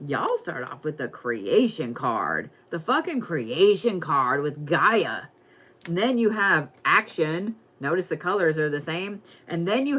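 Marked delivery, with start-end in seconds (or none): 0.1-5.2 slow dramatic reveal. Real, not acted.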